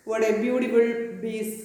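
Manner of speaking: put-on shopkeeper's German accent, "piece" as "bees". Shoemaker admiring the leather, German accent. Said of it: "this is the accent of German".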